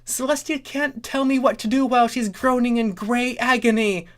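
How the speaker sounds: high, bratty princess voice; defiant Luna voice. Acted. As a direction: sneer it like a spoiled little sister. Luna defies her sister.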